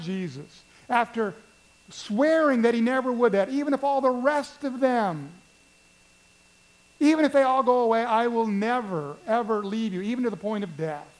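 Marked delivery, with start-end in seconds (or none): 3.5-10.0 fervent vow. Acted. Peter's fervent vow to Jesus.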